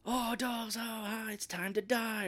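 high, hammed-up gleeful menace; manic Fred. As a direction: play it like a giddy cartoon villain. Imitating Fred ripping dolls.

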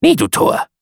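very high, loud bird cry; raven's refrain. A narrator's reading. Raven refuses the narrator's plea, screeching high. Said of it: "Sprach der Rabe".

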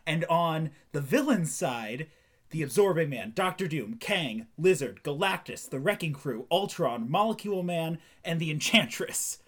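rattling off the list in one breath; one long breath, no pausing; all in one breath. Pretend. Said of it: "let me see if I can do this in one breath".

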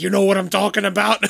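hammed-up New York tough guy; thick New York accent. Shown as a demonstration. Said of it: "like, mine gets worse. Like, I get real".

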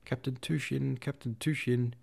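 high call from above. A narrator's reading. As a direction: call his name across the battery. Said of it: "an unfamiliar voice called out".

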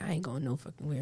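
laughing shout. Retold or imitated. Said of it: "I was like".

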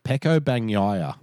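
slow, careful "Pecco Bagnaia". Shown as a demonstration. Co-host echoes the slowed name, slowed down. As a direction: repeat "Pecco Bagnaia" word by word. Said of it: "I'll slow it down for you".

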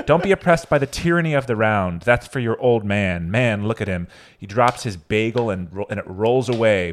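loud, mocking stand-up delivery; loud stand-up rant. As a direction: belt it like a comedy bit. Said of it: "So this is his bit".

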